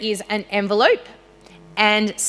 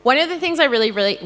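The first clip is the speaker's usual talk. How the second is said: teacher voice; 6 semitones higher, 4 dB louder, faster than usual. Real, not acted. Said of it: "my teacher voice".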